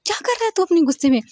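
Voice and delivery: high, fast exasperated scolding. Acted. Friend scolding her boss for breaking the laptop, high and fast exasperation. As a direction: snap at him to stop the rage.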